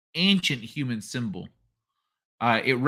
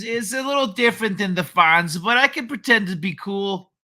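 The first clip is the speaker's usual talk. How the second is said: playful Jewish impression; 5 semitones higher, 3 dB louder than usual. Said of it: "my Jewish impression is".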